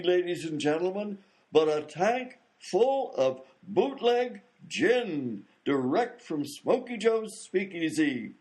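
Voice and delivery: slow showman's build-up, phrase by phrase; stage announcer. Acted. Announcer building up the gin-tank dive, grand and drawn out. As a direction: draw out each phrase for suspense.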